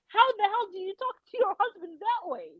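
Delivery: how the hell, in disbelief; exasperated outrage. Retold or imitated. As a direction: inner voice, outraged at the wife. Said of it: "in my head, I'm like".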